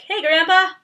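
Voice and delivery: a high, loud teasing hey Grandpa; playful call out. Retold or imitated. Calling to someone in Walmart: playful high shout. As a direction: hail someone across the store. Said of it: "I'm like".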